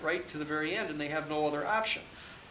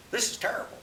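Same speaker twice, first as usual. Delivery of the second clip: dismayed; 7 semitones higher than usual. Retold or imitated. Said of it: "he says".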